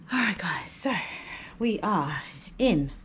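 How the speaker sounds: hushed whisper to the camera. Real, not acted. Baby asleep, hushed intro.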